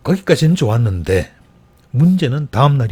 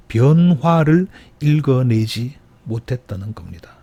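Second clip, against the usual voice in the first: slow, weighty delivery with 변화를 stressed; deliberate sermon emphasis. Shown as a demonstration. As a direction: lay down the point slowly. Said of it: "preacher repeats key point".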